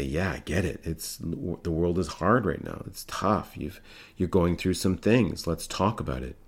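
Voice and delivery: calm a distressed caller; soothing reassurance. Retold or imitated. Crisis worker soothes a distressed caller, soft and reassuring.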